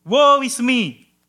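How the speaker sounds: Isaiah before God, slow mournful outcry; crying out in lament. Acted. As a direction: wail it as a death curse. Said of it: "He cries out".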